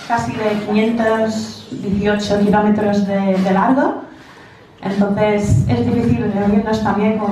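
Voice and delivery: Spanish with an American accent; English speaker's accent in Spanish. Real, not acted. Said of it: "perdona mi español".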